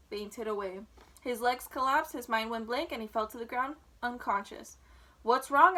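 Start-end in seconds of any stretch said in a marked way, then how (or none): 5.2-5.8 louder, startled call; alarmed loudspeaker. A narrator's reading. Announcer calls out as Wilbur faints, alarmed. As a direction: cry out in sudden alarm. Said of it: "asked the loudspeaker".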